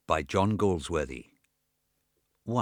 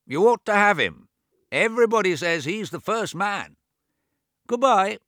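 put-on high, loud old man talking over his own deafness; deaf old James; 11 semitones higher, 7 dB louder than usual. A narrator's reading. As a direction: raise the voice as if he can't hear himself. James takes his leave.

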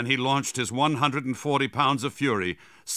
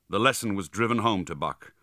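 ordinary delivery, nothing marked

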